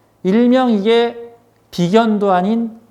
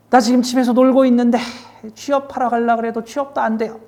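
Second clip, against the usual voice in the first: mock whiny complaint, higher pitched; frustrated client; 5 semitones higher than usual. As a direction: play a fed-up client venting about his troubles. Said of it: "일단 상담 내용을 탁 들어보면". (답답해하는 상담객 흉내, 높은 톤으로 푸념)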